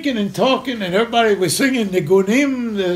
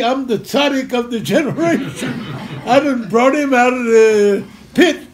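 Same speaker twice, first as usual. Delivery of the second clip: laughing mock boast; 3 semitones higher, 3 dB louder than usual.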